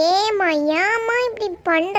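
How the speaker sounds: drawn-out, slow whine; whining plea. Acted. Daughter begging mother for help with bags, whining slowly. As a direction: plead in long, dragged vowels.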